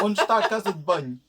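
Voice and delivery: fast, clipped Algarvian "Onde está a casa de banho?" with sounds dropped; quick Algarvian mumble of the phrase; clipped Algarvian accent. Shown as a demonstration. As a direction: rattle it off Algarvian style, eating the vowels. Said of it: "Cut most of it".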